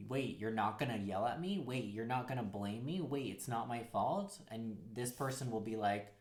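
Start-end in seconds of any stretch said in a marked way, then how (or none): 0.1-4.4 halting questions, each rising at the end; disbelieving questioning. Acted. You questioning a new partner, mildly disbelieving. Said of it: "go as far to question".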